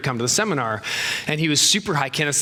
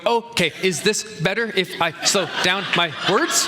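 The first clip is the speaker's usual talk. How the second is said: robot voice; 4 semitones higher than usual. Retold or imitated. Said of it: "You sound like a robot".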